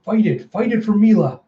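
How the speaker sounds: high, pleading push; desperate urging. Acted. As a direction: urge a loved one to hold on, acted. Urging Effie to resist instincts.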